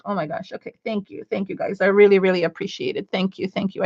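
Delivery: soft, low, tearful thanks; choked up, dropping away in volume; quietly overwhelmed with gratitude; starting to cry. Real, not acted. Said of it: "now I'm starting to cry".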